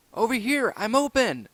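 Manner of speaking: high, loud call across the field. Acted. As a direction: shout that you're open. Marshall calling for the ball.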